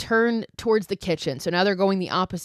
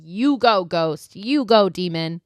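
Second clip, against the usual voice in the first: loud cheer of "You go"; 6 dB louder, slower than usual. Retold or imitated. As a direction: cheer the demon on like a fan. Cheering the ghost on.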